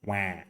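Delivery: put-on "Wah" through the nose, like a baby; soft demo of a nasal "Wah"; nasal baby cry. Shown as a demonstration. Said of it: "use your nose a little bit".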